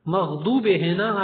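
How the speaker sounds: مغضوب drawn out, the ض sounded close to غ; a slow demo of the mistaken مغضوب; wrong pronunciation demo. Shown as a demonstration. The teacher shows students the wrong مغضوب. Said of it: "آپ نے کیا کر دیا؟".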